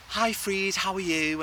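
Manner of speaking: mum's posh telephone voice to her son; put-on telephone voice. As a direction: chirp it like a receptionist. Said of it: "she'll put on, like, a telephone voice".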